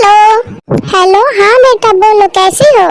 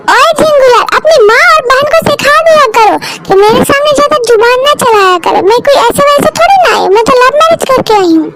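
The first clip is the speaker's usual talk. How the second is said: haughty wife; 4 semitones higher than usual. Acted. Wife warns husband in quarrel.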